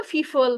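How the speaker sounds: ফিফল, people with f sounds, as the Noakhali student said it; imitating the student's ফিফল. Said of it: "উনার pronunciation এরকম ছিল". (নোয়াখালীর ছাত্রের মতো "ফিফল" বলে নকল)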